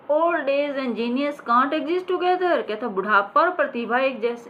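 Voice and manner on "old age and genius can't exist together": high, very slow proud line; hammed-up stage pride; theatrical declamation. Shown as a demonstration. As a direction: declaim it like an old actor. Acting the old actor.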